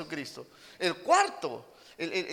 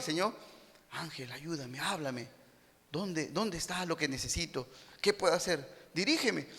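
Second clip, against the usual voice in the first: soft imitated prayer; 4 semitones lower, 7 dB quieter than usual. Mocked prayer of deceived believers.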